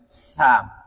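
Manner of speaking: সা as a th sound, tongue at tooth tips; slow, isolated lisped সা; tongue tip on upper teeth edges for সা; demonstrating articulation. Shown as a demonstration. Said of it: "আগার সঙ্গে লাগাইয়া".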